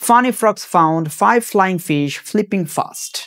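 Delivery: very slow, every f-sound drawn out, "Funny frogs found five flying fish flipping fast"; very slow tongue twister. Shown as a demonstration. Teacher slowly demonstrating the tongue twister, very slow. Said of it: "আবার দেখো".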